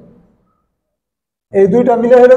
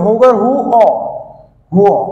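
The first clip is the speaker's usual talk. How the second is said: quick run-through. Shown as a demonstration. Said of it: "আমার সাথে সাথে আপনারা উচ্চারণ করেন".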